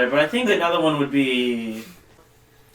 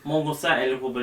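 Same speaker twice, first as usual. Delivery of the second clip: fake French; 2 semitones lower, 5 dB quieter, faster than usual. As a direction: pretend French, half-mumbled. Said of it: "That's not French".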